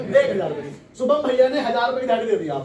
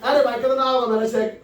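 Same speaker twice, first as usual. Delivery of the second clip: put-on Haryanvi accent. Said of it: "Haryanvi भाषा में ना?".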